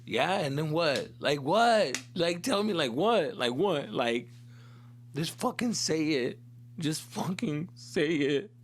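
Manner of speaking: re-enacted exasperated pleading; emotional, impatient demand. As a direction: press for the answer, slowing on the last demands. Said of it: "this is how emotional I got".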